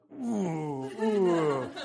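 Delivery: drawn-out, falling oohs; mock-stung "ooh". Lecturer reacting to Aragorn's jab at Boromir, mock-stung. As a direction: savour the burn with long oohs.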